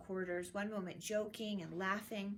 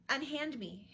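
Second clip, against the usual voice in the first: a sharp, higher command; ordering; 5 semitones higher, 4 dB louder than usual. A narrator's reading. Prince ordering his friends to let go, firm. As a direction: shake them off with an order. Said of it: "Hamlet ordered".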